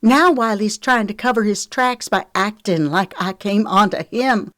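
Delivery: high, loud indignant outburst; raging. A narrator's reading. Lexi tells Trent about Wiley's lies, raging. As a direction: pour out the accusation furiously. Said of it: "Lexi raged".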